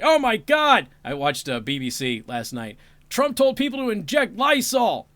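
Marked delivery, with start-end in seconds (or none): 0.0-0.9 high, loud mock-hysterical cry; mock outrage. Mocks panicked media reaction. 3.1-5.1 high, loud mock-hysterical report; mock outrage. Mocks panicked media claim.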